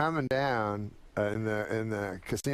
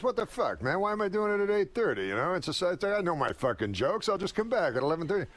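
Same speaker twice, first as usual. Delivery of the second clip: mock exasperated complaint, pitched up; retold griping; 5 semitones higher than usual. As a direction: imitate a fed-up comic griping about the schedule. Acted complaint of an irritated comic.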